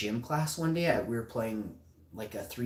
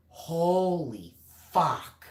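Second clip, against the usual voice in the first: stunned reaction; 4 semitones higher, 4 dB louder, much slower than usual. Retold or imitated. Retold shock at breaking glasses.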